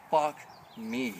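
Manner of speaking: breathy whispered fuck me; a private groan of dismay; whispered curse. Real, not acted. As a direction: mutter it under the breath. Muttered reaction to bad news.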